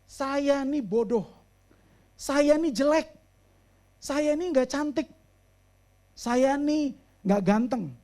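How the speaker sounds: self-labelling client. Retold or imitated. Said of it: "label, name calling".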